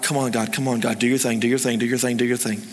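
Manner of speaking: low, rapid repeated muttered prayer; low-pitched anxious chant to yourself; nervous pleading. Retold or imitated. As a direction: urge God on under your breath, anxiously. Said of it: "I was just nervous".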